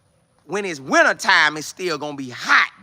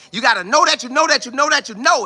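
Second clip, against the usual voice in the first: preacher quote; 7 semitones higher than usual. Retold or imitated. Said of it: "some pastors always say".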